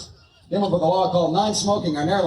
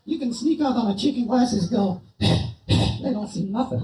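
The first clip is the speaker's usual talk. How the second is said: squeaky high puppet voice, shouted out; a cheeky dummy yelling hello from the box; ventriloquist dummy Bob; 5 semitones higher, slower than usual. Acted. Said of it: "we're gonna do some ventriloquism here".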